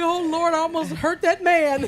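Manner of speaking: animated retold fright; startled bystander. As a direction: re-enact someone shaken by a near miss. Startled man in retold scene.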